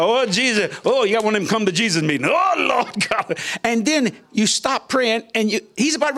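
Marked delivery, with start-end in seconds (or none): 0.0-3.4 lampoon a come-to-Jesus prayer, hammed-up; mock fervent prayer. Mocking loud prayer meeting.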